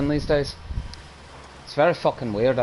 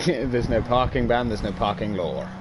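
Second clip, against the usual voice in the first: put-on Irish accent; 2 semitones lower than usual. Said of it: "You just sounded Irish then".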